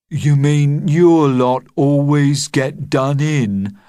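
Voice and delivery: put-on boy's voice. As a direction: play a cheeky schoolboy. Kev, a boy, asks.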